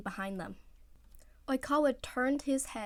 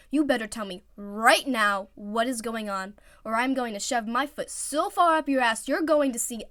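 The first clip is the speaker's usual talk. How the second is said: loud, angry threat; threatening; 7 dB louder than usual. Acted. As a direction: threaten him loudly. Threatening boyfriend.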